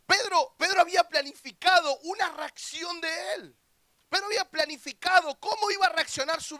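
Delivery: loud, high preaching burst; preaching shout. Real, not acted. Preacher shouting Pedro's name to the youth, loud and high. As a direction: call it out over the crowd.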